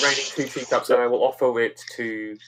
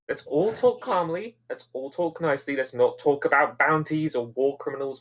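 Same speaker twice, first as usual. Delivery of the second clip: calming the room. Acted. Calming a tense standoff.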